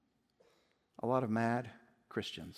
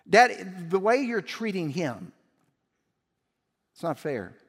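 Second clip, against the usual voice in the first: indignant protest; 4 semitones higher, 6 dB louder than usual. Acted. Son protests to father.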